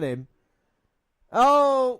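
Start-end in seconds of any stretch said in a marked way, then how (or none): 1.3-2.0 sudden, much higher, louder "Oh!"; surprised gasp. Real, not acted. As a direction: jolt up at the big moment. Sudden tag made in match.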